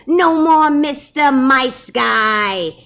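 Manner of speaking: loud, slow, menacing squeak; tiny mouse acting tough; tough-guy threat. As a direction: draw it out like an action hero. Big Cheese threatens Dogzilla.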